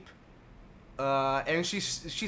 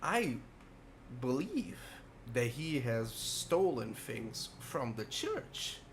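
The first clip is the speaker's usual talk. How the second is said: put-on very old man; 5 dB quieter than usual. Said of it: "a very frail old man".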